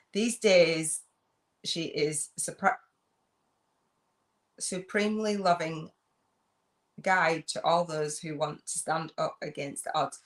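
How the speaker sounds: halting, careful read-aloud. Real, not acted. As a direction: read haltingly, pausing between phrases. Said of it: "let me read it slower".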